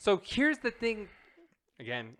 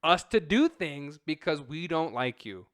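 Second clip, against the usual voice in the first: dismissive; 3 semitones lower than usual. Acted. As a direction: act out a blunt refusal. Acting out studio's blunt rejection.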